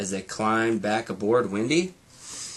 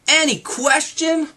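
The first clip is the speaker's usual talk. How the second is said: sleepy; 6 dB louder than usual. A narrator's reading. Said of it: "Morty asked in a very sleepy voice".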